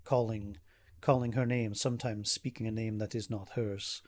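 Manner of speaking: halting, grave account in lightly acted formal speech; worried protective brother. Ismark reports his sister's stalker, mildly troubled manner. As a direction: pick through the words with understated unease.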